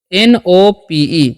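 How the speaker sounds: slow, letter by letter; spelling out letters. Shown as a demonstration. Teacher spells the word for Hindi learners, slowly. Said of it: "तो इसे क्या पढ़ेंगे?".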